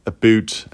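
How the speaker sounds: "a boot" said the Canadian way, with an oo vowel; Canadian-style "a boot", drawn out; Canadian pronunciation. Shown as a demonstration. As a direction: stretch "a boot" into Canadian "aboot". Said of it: "I could even be Canadian if I just add a little".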